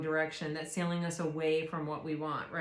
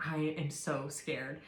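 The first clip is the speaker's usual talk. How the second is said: hushed scared confession; 3 semitones lower, 5 dB quieter than usual. Retold or imitated. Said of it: "I was like".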